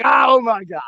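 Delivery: high-pitched retold astonishment; amazed. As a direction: act out being blown away, pitch jumping up. Acting out his amazed reaction.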